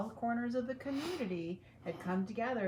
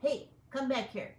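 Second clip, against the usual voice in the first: higher, louder squeaky call; mouse shout; 6 semitones higher, 4 dB louder than usual. Acted. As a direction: call the troops back in a mouse voice. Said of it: "shouted the Big Cheese".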